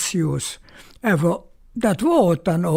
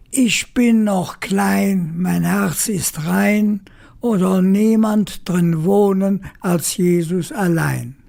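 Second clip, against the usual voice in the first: reciting a poem. Shown as a demonstration. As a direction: recite it like a small child saying bedtime prayers. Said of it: "möchtest du Christtag ein Gedicht absagen".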